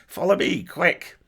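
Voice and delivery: high, loud battle yell. A narrator's reading. Goblin sergeant calls her troops to charge, yelling. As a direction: yell an urgent order to follow. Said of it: "somebody was yelling".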